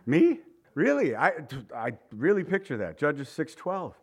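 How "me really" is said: scared little guy. Acted. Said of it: "scared, little guy".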